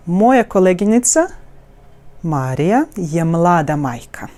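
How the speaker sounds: "Moja koleginica Marija je mlada majka" with open vowels in a melodic wave; open, connected vowels. Shown as a demonstration. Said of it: "very, very openly".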